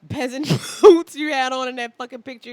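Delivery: laughing teasing. Real, not acted. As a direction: crack up while roasting him. Teasing friend about old photos.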